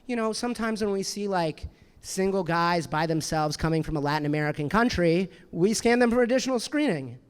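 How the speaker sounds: matter-of-fact, casually explaining procedure; calm, casual agent. Retold or imitated. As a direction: imitate an unbothered TSA agent. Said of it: "said very calmly, very casually".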